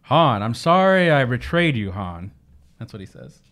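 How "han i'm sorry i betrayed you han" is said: lightly voiced smooth charmer; a hint of a suave apology; Lando impression. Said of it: "That was my impression".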